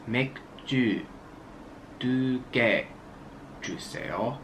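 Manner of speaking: each word spaced and careful; slow over enunciating. Shown as a demonstration. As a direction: pause between every word. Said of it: "So slowly it's".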